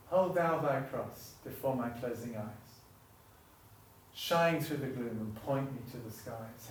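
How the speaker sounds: hymn lines recited reverently; hymn recital. Acted. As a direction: recite the verse like a prayer.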